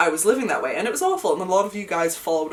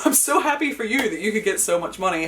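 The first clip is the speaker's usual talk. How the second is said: mocking landlord; 3 semitones higher than usual. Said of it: "one of the things she literally said".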